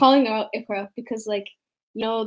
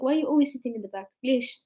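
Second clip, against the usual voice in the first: put-on quick, soft Arabic-accented question; mock teacher's Arabic accent; 5 dB quieter, faster than usual. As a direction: imitate an Arab teacher, rushed. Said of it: "she's Arab. So this is like".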